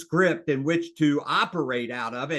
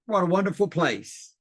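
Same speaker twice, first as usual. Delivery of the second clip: mild gushing; 3 semitones higher than usual. Shown as a demonstration. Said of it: "You ought to practice that".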